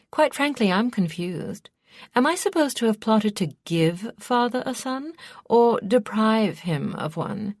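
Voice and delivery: lively, swooping indignation; indignant daughter. A narrator's reading. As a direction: act affronted and baffled by the accusation. Story figure, Ianthe defending herself.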